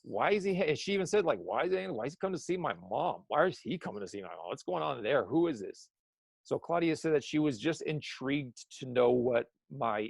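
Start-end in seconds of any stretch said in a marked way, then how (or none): 0.0-5.9 put-on excited kid. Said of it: "the kid's cool meter is like".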